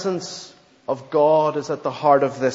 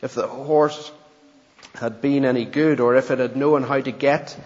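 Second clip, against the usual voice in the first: steady storybook narration; story reading. Acted. Preacher reading a story to the congregation, steady narration. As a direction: read the tale aloud evenly.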